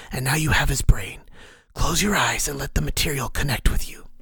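eerie unvoiced whisper of a hidden mentor; whispering inner voice. The mysterious voice counsels Ank, eerie whisper. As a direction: breathe it like a voice inside his skull.

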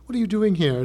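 snooty penguin. Retold or imitated. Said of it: "I just speak like that 'cause I picture them wearing tuxedos".

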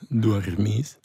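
Dormis with a lingering R, rising; own R. Shown as a demonstration. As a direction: show off the R in Dormis. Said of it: "Mein R". (Dormis mit mim R)

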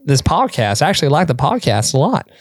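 imitated thick accent with a swinging tune; Jeff Cunningham's thick accent. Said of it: "sorry if this accent is bad".

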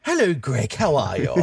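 put-on English greeting; mock English accent. Australian mocking the similar accent to his co-host, mock English. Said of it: "the accent is similar".

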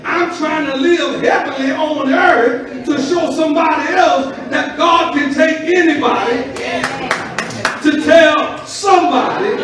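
rising shouted preaching; booming motivational speech. Acted. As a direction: build it to a shout.

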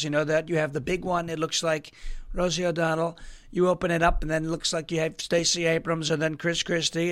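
a hint of Trump's rally riff; Trump impression. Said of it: "learning how to do Trump".

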